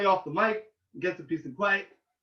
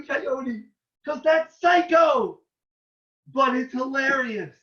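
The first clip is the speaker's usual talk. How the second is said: high, slow, drawn-out declaration; hyped-up storyteller quoting himself; excited retold proclamation; 5 semitones higher, slower than usual. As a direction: proclaim it to the whole bus, stretching the words. Acting out his excited bus speech.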